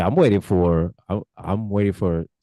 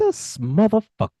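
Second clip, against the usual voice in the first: wrestling promo; 10 semitones higher than usual. Retold or imitated.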